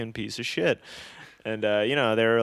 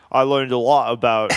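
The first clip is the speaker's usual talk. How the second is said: half-hearted louder Aussie attempt; a hint of badly done Australian; attempted Australian accent; 7 dB louder than usual. Tattooed tourist back from Vietnam, in an attempted Australian accent. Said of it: "not gonna be able to do the accent".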